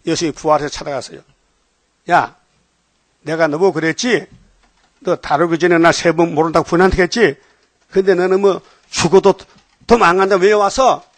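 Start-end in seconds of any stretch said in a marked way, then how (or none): 2.1-11.0 mildly raised, reproachful telling-off; preacher voicing a stern reprimand; acted scolding. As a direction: scold as if calling out a broken promise. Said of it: "막 야단치는 거예요".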